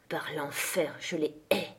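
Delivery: juron bas et sourd, pour soi-même; juron à part soi. A narrator's reading. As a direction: jurer tout bas, plus grave et moins fort. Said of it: "jura en se parlant à lui-même". (se parler à soi-même en jurant)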